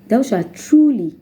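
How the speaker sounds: TRULY lifted high and drawn out; slow quote landing on a high "truly"; stress on truly. Real, not acted. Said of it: "laying emphasis on the word truly".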